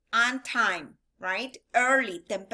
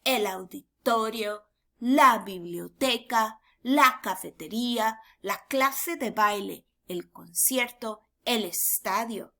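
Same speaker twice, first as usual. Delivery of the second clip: vocabulary drill. Shown as a demonstration. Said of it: "Repeat after me".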